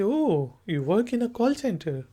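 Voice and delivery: slow, clear spoken example; slow model reply. Shown as a demonstration. Teacher models how the student should answer. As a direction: say it slowly so students can copy it. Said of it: "तो आप कहेंगे".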